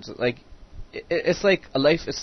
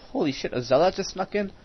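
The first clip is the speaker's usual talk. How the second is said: startled; 6 semitones higher than usual. Real, not acted. Sudden surprise during game.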